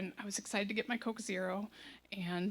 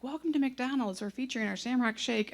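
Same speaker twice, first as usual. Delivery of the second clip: imitated drive-thru recording, slightly raised; scripted fast-food promo greeting; recorded greeting; 3 semitones higher than usual. Imitating the recording that greets McDonald's customers, recorded greeting. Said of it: "it's the recording".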